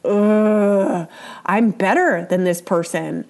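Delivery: scornful groan then smug aside; contemptuous. Shown as a demonstration. Teacher voicing a resentful partner's contempt. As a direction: sneer it under your breath. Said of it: "feeling like".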